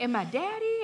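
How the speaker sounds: put-on a toddler eagerly checking on her brother; little daughter's voice. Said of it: "she was like".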